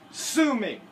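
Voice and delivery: high, loud cheeky challenge; mock defiant dare. Gamer dares the owner of the stolen item. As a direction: dare them playfully.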